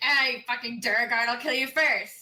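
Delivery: booming, very loud, mocking, jeering tone. A player's character taunts an enemy who just threatened to kill him, mocking taunt. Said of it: "I'm going to like mock him".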